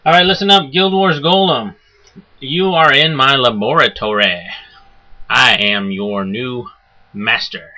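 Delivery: lightly voiced booming overlord; a hint of an arrogant master addressing his golem; booming arrogant alien overlord.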